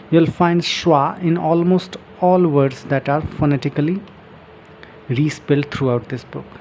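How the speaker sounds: slow, careful reading from the book; reading aloud. Shown as a demonstration. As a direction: read each phrase out slowly for learners. Reading book text aloud slowly. (किताब से धीरे-धीरे पढ़ना)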